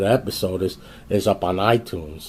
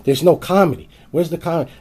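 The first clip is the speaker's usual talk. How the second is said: higher, louder fed-up complaint; mock-angry higher yell; exasperated outburst; 6 semitones higher, 4 dB louder, faster than usual. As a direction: demand to know where the jokes went. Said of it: "I'm sitting there going".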